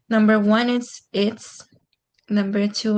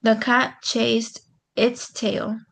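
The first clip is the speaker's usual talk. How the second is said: slow, careful reading of "The cat chased its tail."; trying the right word; slower than usual. Shown as a demonstration. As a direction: read "its" slowly, checking it fits. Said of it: "I don't think so".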